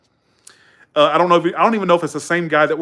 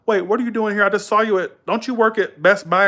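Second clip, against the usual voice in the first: higher-pitched imitation of a surprised customer; puzzled customer; 6 semitones higher than usual. Customers at Walgreens confronting a supposed lookalike, puzzled. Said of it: "have people come into my job".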